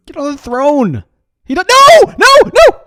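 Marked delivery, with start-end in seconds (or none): 1.4-2.8 no shout. Real, not acted. Character teleports away from throne.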